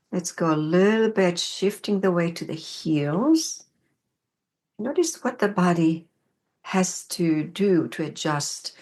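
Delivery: unhurried guidance with long pauses between phrases; guided meditation. Real, not acted. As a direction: guide the body gently, leaving room to feel each step. Leads a standing meditation.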